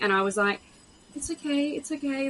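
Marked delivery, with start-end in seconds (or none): 1.1-2.3 consoling. Retold or imitated. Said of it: "I was consoling her".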